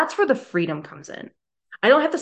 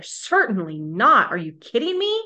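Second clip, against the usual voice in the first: emphatic Paul; 9 semitones higher than usual. Retold or imitated. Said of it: "he has an explanation point there".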